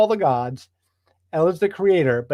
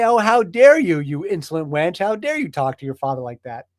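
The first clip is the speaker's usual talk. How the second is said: mock indignant outrage. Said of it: "He doesn't say".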